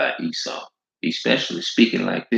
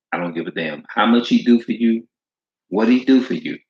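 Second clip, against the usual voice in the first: heated preaching; 4 semitones higher, 4 dB louder than usual. Real, not acted. Preaching at full force.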